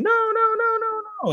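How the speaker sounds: squeaky, very high mock plea; mock begging. Headmaster begs the king for mercy, squeaky mock pleading. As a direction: beg like a pitiful cartoon. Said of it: "he's, like, begging the king".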